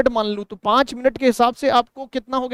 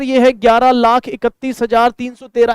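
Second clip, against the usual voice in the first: wrong way demo; 6 dB louder than usual. Shown as a demonstration. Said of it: "ऐसे नहीं पढ़नी है आपको".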